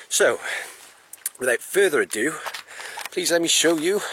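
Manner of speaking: cheerful vlog host intro; upbeat invitation. Real, not acted. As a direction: lift it up like a presenter. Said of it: "I'm panting in between speaking".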